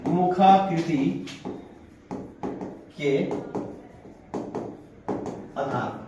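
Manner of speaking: very slow, each word set apart with long gaps; slow dictation. Shown as a demonstration. Teacher dictating a heading to note-taking class, very slow. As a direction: dictate मुखाकृति syllable by syllable. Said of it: "लिखो चौथा".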